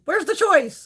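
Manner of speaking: retold confusion. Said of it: "I was on there today going".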